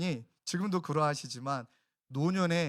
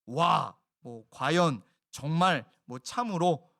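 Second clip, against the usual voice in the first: loud, separate bursts of mild wonder; demonstrated cry of amazement; awed exclamation; 4 dB louder, much slower than usual. Shown as a demonstration. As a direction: punch each word out with feeling. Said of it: "감정을 터뜨리는 말".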